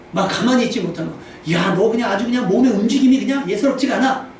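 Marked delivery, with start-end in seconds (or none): 1.5-4.3 high, lively mock admiration; admiring praise. Shown as a demonstration. Praising a child who cannot keep still, admiring. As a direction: marvel at the child as a compliment. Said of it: "칭찬해서".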